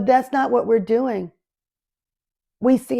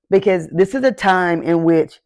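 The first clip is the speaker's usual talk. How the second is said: ordinary talk, nothing marked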